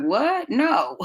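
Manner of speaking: startled high "What? No"; shocked mom. Retold or imitated. Mom reacting to her kid's idea, shocked and high. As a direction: pitch jumps up in disbelief. Parent answering a child's wild idea.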